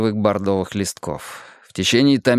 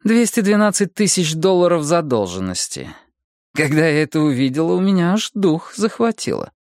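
lightly voiced higher detective; higher character voice, mildly shocked; detective Bonnie, taken aback; 5 semitones higher than usual. Detective tells the husband about huge debts, mildly shocked higher voice.

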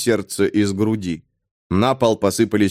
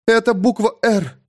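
frightened whisper; 12 semitones higher than usual. A narrator's reading. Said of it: "испуганно прошептала Кара".

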